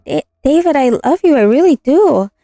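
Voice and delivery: high desperate plea; pleading. Acted. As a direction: beg him to believe you. Girlfriend pleading on the floor.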